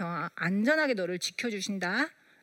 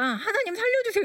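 a high, pleading cry to God; desperate plea; 11 semitones higher than usual. Retold or imitated. Worn-out mother crying out to God, voice jumping high. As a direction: cry out for help from the bottom of exhaustion. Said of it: "이 소리가 절로 나오는 거예요".

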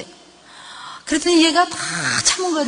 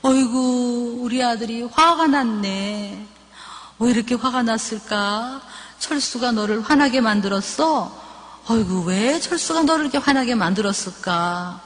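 soothing empathetic mother; 4 dB quieter than usual. Shown as a demonstration. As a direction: draw it out with soft sympathy. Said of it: "걔한테 이렇게 얘기해야 돼요".

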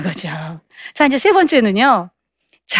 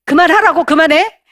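angry shout; 6 semitones higher, 4 dB louder than usual. Acted. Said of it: "남편이 어떻게 하냐면".

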